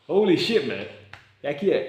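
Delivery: loud, high burst of hype; excited outburst. Real, not acted. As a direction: blurt it out, pumped up. Sudden burst of enthusiasm.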